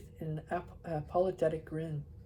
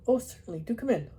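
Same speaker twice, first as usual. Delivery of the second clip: babbling; 4 semitones higher, faster than usual. Acted. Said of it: "I babbled".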